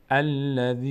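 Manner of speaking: الذی with a long held final "iii"; recited "alladhiiii" for الذی; lengthened ya. Shown as a demonstration. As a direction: stretch the end of الذی on one level note. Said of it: "باید بکشیم یا رو".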